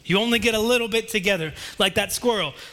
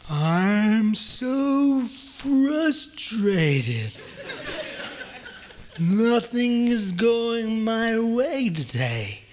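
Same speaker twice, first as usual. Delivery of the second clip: very slow, drawn-out turtle voice; much slower than usual. Acted. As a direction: stretch every word like a sleepy turtle.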